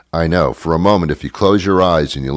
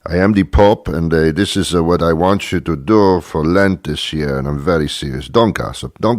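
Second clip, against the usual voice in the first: Pope impression. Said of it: "that's my impression of, uh, the Pope".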